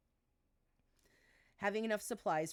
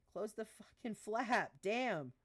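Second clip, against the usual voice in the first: stern, drawn-out order; 5 semitones higher, 3 dB louder, slower than usual. Acted. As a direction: bark it like a fed-up sergeant. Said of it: "she said sternly".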